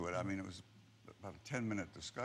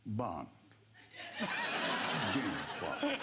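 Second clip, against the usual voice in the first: deliberate British-accented Bond introduction; much slower than usual. Shown as a demonstration. Actor shows interviewer his British accent, mock British Bond. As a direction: put on a British accent for the famous line. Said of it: "let's have a better your British accent".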